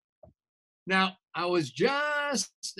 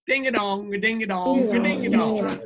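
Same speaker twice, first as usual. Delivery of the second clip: doorbell chant; 4 dB louder than usual. Shown as a demonstration. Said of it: "Everybody ring with me".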